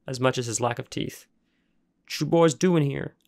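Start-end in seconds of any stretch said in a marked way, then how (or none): 2.0-3.1 a hint of a gruff old junkyard man; rough backwoods worker demanding answers; gravelly voice. Junkyard worker confronting trespassing boys, lightly gravelly. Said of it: "he asked in a gravelly voice".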